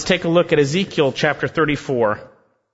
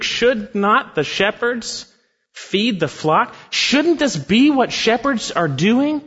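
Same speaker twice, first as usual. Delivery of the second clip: slow, rising rebuke, higher on the last question; rebuking question; 6 semitones higher, slower than usual. Acted. Preacher voicing God's rebuke of the shepherds, slow and rising. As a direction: press the rhetorical question home. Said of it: "the rhetorical question in this rebuke".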